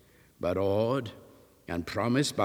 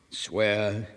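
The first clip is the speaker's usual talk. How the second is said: sternly. Acted. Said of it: "added Enoch sternly".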